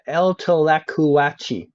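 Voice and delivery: slow, drawn-out Spanish retry; mock Spanish. Streamer retrying a Spanish sign, slow mock Spanish. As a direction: try the name again, stretched out proudly. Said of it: "I'm gonna read every sign out in perfect Spanish".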